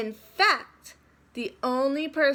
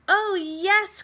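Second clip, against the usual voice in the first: much higher, louder happy cry; cried out; 9 semitones higher, 6 dB louder than usual. A narrator's reading. The kids, overjoyed at story hour, crying out high and loud. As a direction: cry out with delight. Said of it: "cried the kids".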